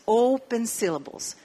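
"open syllables" said clearly in English; name the English term for the class. Shown as a demonstration. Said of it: "sílabas abiertas". (término en inglés, claro)

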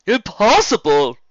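loud, slow exclamation; half shout. Acted. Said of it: "he half shouted".

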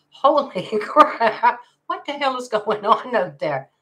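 high, loud, stretched-out disbelief; holy crap, genuinely taken aback; shocked. Real, not acted. Hearing a friend's daughter got bitten, reacting in shock.

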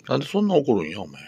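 high pleading question to the pet; high puzzled plea to an angry pet. Real, not acted.

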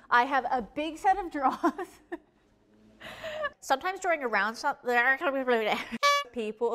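giggling through the line; can't stop laughing. Real, not acted.

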